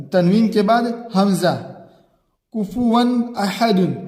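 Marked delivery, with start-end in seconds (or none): 2.5-4.0 slow recitation, clear नून; slow clear reading of कुफुवन अहदुन; izhar recitation. Shown as a demonstration. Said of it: "इजहार होगा".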